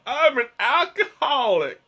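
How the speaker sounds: high, put-on Southern drunk; Southern alcoholic voice. Joking to viewers about spiking his tea, Southern alcoholic voice. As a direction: play a hammed-up drunk with a high Southern accent. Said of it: "my alcoholic voice has a southern accent".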